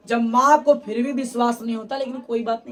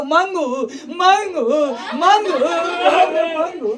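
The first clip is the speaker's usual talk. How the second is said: crying out a name; 6 semitones higher, 6 dB louder, slower than usual. Acted. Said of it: "इतना रोने लगी".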